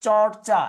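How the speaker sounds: loud, deliberate "চর্চা" as chor-cha; pronunciation demo. Shown as a demonstration. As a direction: model "চর্চা" firmly in two syllables. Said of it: "শব্দের উচ্চারণ কি?".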